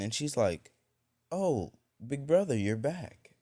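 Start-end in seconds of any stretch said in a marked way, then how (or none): 1.3-3.3 high, louder little-sister welcome; delighted greeting. Acted. Little sister greeting her returning big brother, delighted. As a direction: pipe up happily, pitch leaping.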